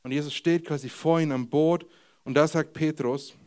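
normal talking voice

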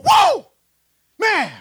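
very high, loud whoop of amazement; pumped up. Acted. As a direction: whoop like a disciple buzzing after a miracle. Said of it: "These guys were that pumped up".

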